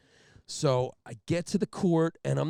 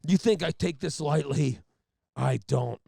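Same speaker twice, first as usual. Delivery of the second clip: Jack Nicholson impression; 3 semitones higher, 5 dB louder than usual. Trooper lectures the courtroom like Jack Nicholson. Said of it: "like he's Jack Nicholson".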